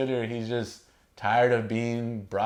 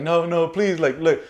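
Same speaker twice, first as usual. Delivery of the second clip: high, louder desperate begging; mock panicked plea; 6 semitones higher, 5 dB louder than usual. Facilier begging the shadows, high mock-panicked voice. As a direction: beg for mercy, hammed-up. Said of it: "He's like".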